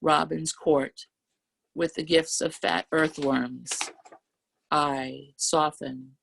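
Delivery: slow, measured poetry reading; unhurried open-mic poem delivery. Acted. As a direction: savour each image slowly. Reads her poem aloud.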